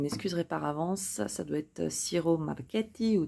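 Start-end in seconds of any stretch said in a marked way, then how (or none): 1.9-3.2 Ciro Marchetti in a tentative Italian accent; attempted Italian accent. Shown as a demonstration. Host apologising to viewers beforehand, attempted Italian accent. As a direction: try the artist's name with an Italian accent. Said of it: "on va passer sur l'accent italien".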